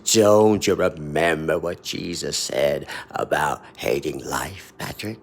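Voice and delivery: slow, sinister, grinning taunt; a hint of a sly angel, slowed right down; maniacal grin. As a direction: drag it out like a grinning trickster. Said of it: "With this maniacal grin".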